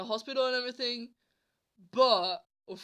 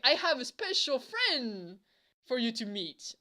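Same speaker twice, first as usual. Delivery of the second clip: teasing announcement; 4 semitones higher than usual. Retold or imitated. Girl introducing a surprise to him, teasing. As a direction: draw it out to build mystery.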